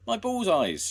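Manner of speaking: high loud demand; shout. A narrator's reading. Missus Williams shouting for sweets, high loud. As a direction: call out shrilly. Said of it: "shouted Missus Williams".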